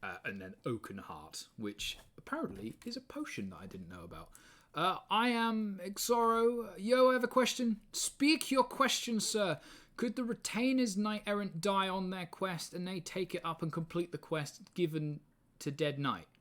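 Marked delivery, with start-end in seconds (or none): 4.7-12.2 character voice. Acted. Introducing his character Xoro.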